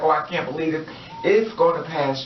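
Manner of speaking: ordinary delivery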